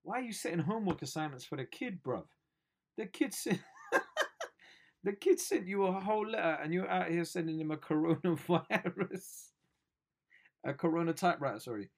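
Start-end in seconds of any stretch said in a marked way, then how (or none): 3.0-11.6 laughing outrage. Real, not acted.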